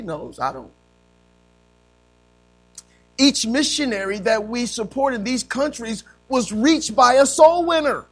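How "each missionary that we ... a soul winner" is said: raised, emphatic preaching voice; forceful preaching. Real, not acted. Preacher on missionaries reached by soul winners, forceful preaching. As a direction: drive the point home to a congregation.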